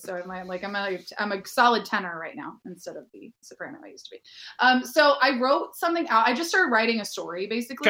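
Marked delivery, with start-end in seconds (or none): 0.0-4.2 gravelly voice. Real, not acted. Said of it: "a gravelly winter voice".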